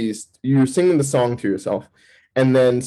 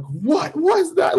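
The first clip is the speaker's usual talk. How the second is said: slow, high-pitched startled question; retold freak-out; much slower than usual. Turning around on the bed, acting freaked out. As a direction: act out being spooked, stretching it high. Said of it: "Like, I'm freaking out".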